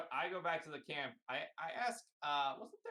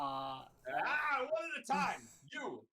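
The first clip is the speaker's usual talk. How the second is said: raised voice, pitched up over a din; calling for order; 5 semitones higher, 4 dB louder, much slower than usual. Acted. Player quiets a cacophony of animal voices, calling out. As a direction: cut through a crowd of chattering animals.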